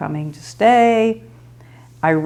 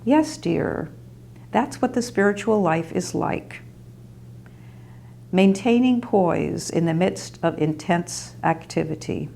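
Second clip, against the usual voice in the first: calm; 4 dB quieter than usual. Retold or imitated. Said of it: "very calmly said".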